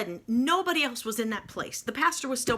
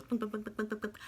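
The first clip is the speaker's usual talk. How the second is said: wind-up toy noise; 9 dB quieter than usual. Retold or imitated. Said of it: "little bouncy toys you wind up that goes".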